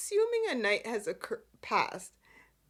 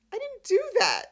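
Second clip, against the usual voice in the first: high, louder protest of innocence; pitched-up acted protest; mock indignant denial; 11 semitones higher, 5 dB louder, faster than usual. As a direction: imitate a man hotly denying it. Acting out Nick's indignant denial.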